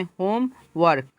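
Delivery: होम and वर्क said as two detached beats; two separate beats. Shown as a demonstration. Teacher showing two beats, होम and वर्क separated. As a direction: pause between होम and वर्क. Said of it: "ये दो beat में हुआ".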